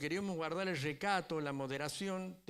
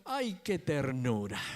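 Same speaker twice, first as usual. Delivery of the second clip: louder, slow mock awww; crowd cooing; 4 semitones lower, 6 dB louder, slower than usual. Church members watching the pastor's child, mock cooing. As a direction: coo it like a charmed congregation. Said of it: "todo el público dijo".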